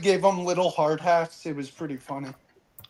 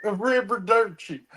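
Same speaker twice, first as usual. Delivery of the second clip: bad Italian accent; 2 semitones higher than usual. Friend echoing the bad Italian arrivederci. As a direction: echo the cheesy Italian farewell. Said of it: "He had the worst Italian accent".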